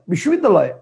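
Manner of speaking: all in one go. Shown as a demonstration. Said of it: "আবার একবারে".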